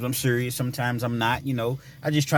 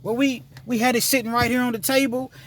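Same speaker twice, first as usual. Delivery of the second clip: imitating young girl; 11 semitones higher than usual. Girl explains, voiced high.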